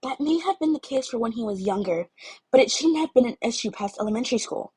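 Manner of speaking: a hint of a stern glaring girl. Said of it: "Yamamoto said with a glare".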